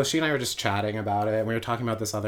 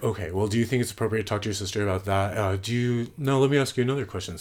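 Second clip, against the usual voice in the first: angry dad. Retold or imitated. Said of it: "he was all pissed off".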